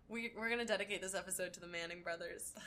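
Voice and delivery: hushed conspiratorial whisper. Pretend. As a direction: whisper it like a secret. Secret joke dedication, unvoiced.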